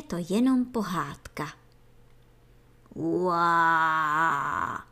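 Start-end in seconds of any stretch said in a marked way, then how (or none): 2.9-4.8 a deep creature roar from far off; distant roar. Acted. Baby antlion roaring far away, deep creature roar. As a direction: roar like a hungry beast in the distance. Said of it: "zaznělo zase".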